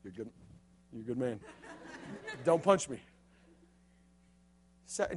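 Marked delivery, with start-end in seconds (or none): 0.0-3.0 much softer and lower, nervously nice; timid politeness. Retold or imitated. Kurt mock-thanking Josh so he won't get punched, timid. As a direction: placate a bully so he won't hit. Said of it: "They say something mean to you".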